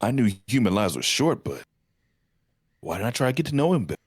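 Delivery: dramatic dubbed anime line; overacted anime dub. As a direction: read it like an English anime dub. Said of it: "with the anime dub voice".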